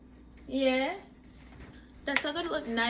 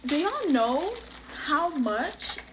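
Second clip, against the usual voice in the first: higher-pitched, overwhelmed gushing; overwhelmed fan; 7 semitones higher than usual. Real, not acted. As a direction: gush as if about to cry. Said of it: "I'm gonna cry".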